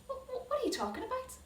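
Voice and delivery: high, fast stammering confusion; baffled and caught off guard; stunned disbelief. Acted. Brothers answering the servant, baffled and fast.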